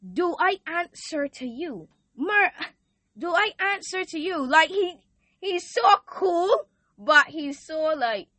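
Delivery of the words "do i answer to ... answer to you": God's voice. Retold or imitated. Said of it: "then God says".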